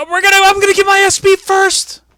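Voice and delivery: shrill, high-pitched, very loud screaming. Retelling a wrestling scene, imitating Nikki screaming. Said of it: "Nikki starts screaming".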